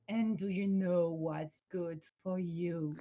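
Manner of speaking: dragon voice. Acted. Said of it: "my voice to be a dragon voice".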